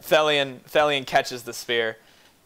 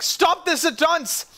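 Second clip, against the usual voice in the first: put-on high, slow old man's order; stern command; slower than usual. Duke ordering the fighters, slow stern command. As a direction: put your foot down slowly.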